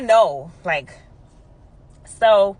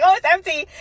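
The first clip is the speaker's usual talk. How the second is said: laughing quote; 10 semitones higher, 6 dB louder than usual. Retold or imitated. Mock-innocent nurse swapping bottle.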